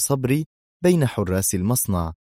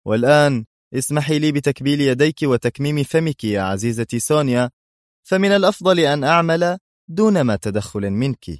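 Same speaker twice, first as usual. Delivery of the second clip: cold and harsh; 6 semitones higher, 4 dB louder than usual. A narrator's reading. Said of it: "بصوت بارد قاس".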